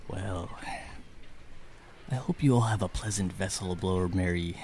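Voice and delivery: ship captain with an Irish lilt; Irish-like accent. Acted. Captain turns to welcome everyone aboard, Irish-like accent. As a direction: address the passengers in an Irish accent. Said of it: "the captain barks orders in his Irish-like accent".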